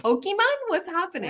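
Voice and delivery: high, baffled mock question; baffled surprise. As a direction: play the confusion of mishearing. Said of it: "That's why I was like".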